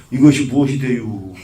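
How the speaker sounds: light Chungcheong intonation; Chungcheong dialect. Shown as a demonstration. Monk showing why the Chungcheong version drags, Chungcheong dialect. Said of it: "충청도 말로".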